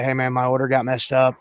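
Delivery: politely and casually flag a mistake; polite complaint. Retold or imitated. Customer to fast food worker about wrong order, politely. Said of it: "politely walk up to 'em and say".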